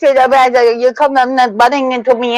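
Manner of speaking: hammed-up foreign-English voice; teasing accent about newcomers to Toronto; mock broken English. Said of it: "you just talk like this".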